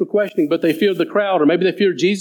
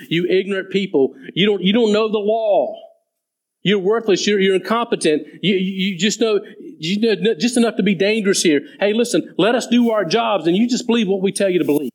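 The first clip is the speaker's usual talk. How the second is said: higher, sneering lecture to the crowd; contempt; 3 semitones higher than usual. Retold or imitated. Pharisees scorn the crowd as ignorant, contemptuous. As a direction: talk down to them like arrogant Pharisees. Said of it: "showing contempt for the people".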